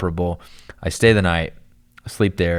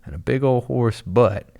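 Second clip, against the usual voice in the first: higher, slow and astonished, like you can't believe your eyes; stunned disbelief; 5 semitones higher, slower than usual. Retold or imitated. Driver who just hit something, slow stunned disbelief. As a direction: drag it out in wide-eyed shock. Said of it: "I'm like".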